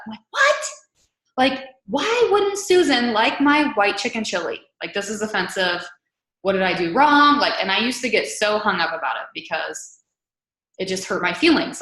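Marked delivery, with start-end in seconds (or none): 0.3-7.4 mock offended. Coach imitating her own upset at an unsubscriber, hammed-up offended. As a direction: play up the wounded disbelief. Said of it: "I get really upset".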